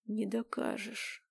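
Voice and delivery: soft, slow menacing hiss; a hint of a sinister hiss; quiet hiss. A narrator's reading. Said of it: "Влад говорил тихо, будто шипел".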